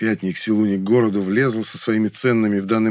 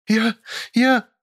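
trembling stammer; 13 semitones higher than usual. Acted. Maid trembling.

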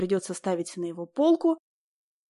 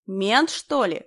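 рёв; 4 dB louder, much slower than usual. A narrator's reading. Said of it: "ревели в купе".

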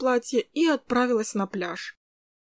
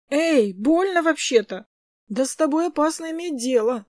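mock hurt protest; 5 semitones higher, 4 dB louder than usual. Gleb mock protesting the shove.

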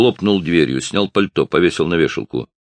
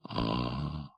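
vague mumble; 3 semitones lower, 15 dB quieter than usual. A narrator's reading. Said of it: "неопределённо промычал Роджер".

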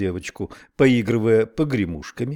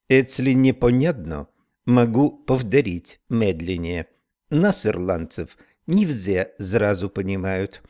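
slow Irish brogue; lightly voiced Irish accent. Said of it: "с сильным ирландским акцентом".

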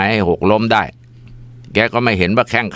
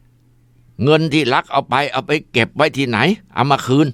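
angry demand; 6 semitones higher, slower than usual. Acted. Possessed father demands stolen money.

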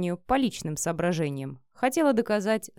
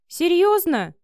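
a high, gasped question of shock; sharp startled gasp, higher; 10 semitones higher, 7 dB louder, slower than usual. A narrator's reading. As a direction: gasp it out, caught off guard. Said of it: "ахнула Марина".

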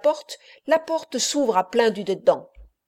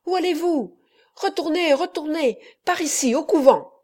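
much higher, frightened urging; trembling urgency; 7 semitones higher than usual. A narrator's reading. The boy Menico redirecting them, trembling and high. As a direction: stop them, shaking with fright. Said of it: "encore tout tremblant leur dit".

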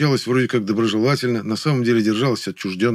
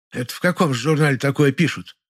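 high, mildly agitated woman's voice; flustered housewife; 5 semitones higher than usual. A narrator's reading. Neighbour asks about the magazine, flustered. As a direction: ask as a worried neighbour, pitched up. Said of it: "заволновалась Ложкина".

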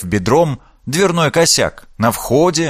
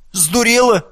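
высокий ошарашенный вскрик; выпалить в полном изумлении; shocked outburst; 11 semitones higher than usual. Acted. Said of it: "ошарашенно глядя на сестру". (Лина ошарашена словами сестры, изумлённо вскрикивает)

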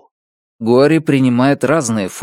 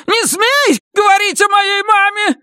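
much higher cracking scream; shrieking shout. A narrator's reading. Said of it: "закричал он, срываясь на визг". (крик, срывающийся на визг)

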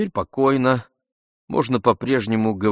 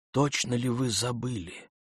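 much softer, asked almost under the breath; timid, hushed asking; тихо, робко; quiet question; 3 semitones higher, 8 dB quieter than usual. Acted. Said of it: "спросил он тихо".

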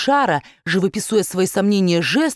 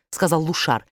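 ordinary delivery, nothing marked

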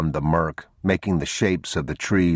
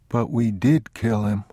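put-on raised small boy voice; reproachful child; 5 semitones higher than usual. Boy awake in the dark answers father, reproachful.

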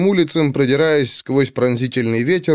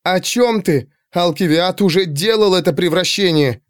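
higher-pitched, exasperated objection; indignant; 5 semitones higher than usual. Acted. Girl disputing her servant's warning, indignant. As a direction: argue back in a raised pitch.

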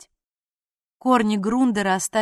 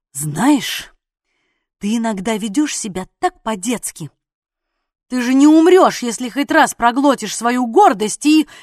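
louder, annoyed telling-off; girl scolding his childish pride, louder; exasperated scolding; 7 dB louder than usual. A narrator's reading.

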